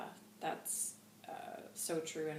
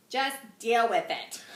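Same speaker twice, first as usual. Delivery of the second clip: mock attitude, louder; playfully bossy dismissal; mock sassy; 4 semitones higher, 11 dB louder than usual. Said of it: "Just kidding".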